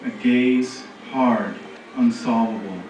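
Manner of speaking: deliberate, phrase-by-phrase verse; poetry reading. Acted. Reading a poem on a hard gaze to an audience, deliberate poetry reading. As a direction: pause after each image, hushing the final repeated words.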